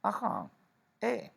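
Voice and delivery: rising high calls; demo interjections. Shown as a demonstration. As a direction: call out adiós, ajá, eh with rising brightness. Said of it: "Por ejemplo".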